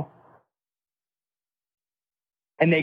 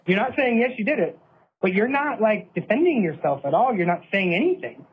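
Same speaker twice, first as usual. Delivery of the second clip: tearful plea; 6 semitones higher than usual. Retold or imitated. To his jailed brother who won't defend himself, higher tearful pleading. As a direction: pitch climbing higher, an upset retold plea. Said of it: "I remember I started crying".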